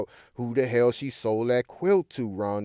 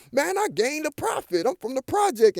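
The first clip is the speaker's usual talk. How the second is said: smug younger self; 13 semitones higher than usual. Retold or imitated. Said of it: "I'm thinking".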